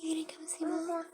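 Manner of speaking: high, breathless whisper. Real, not acted. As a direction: whisper it sweetly to a pet. Whispered repeat to bird.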